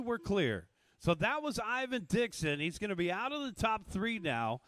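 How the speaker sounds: energetic race commentary voice; race play-by-play. Acted. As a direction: call the race live.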